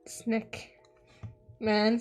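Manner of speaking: ordinary talk, nothing marked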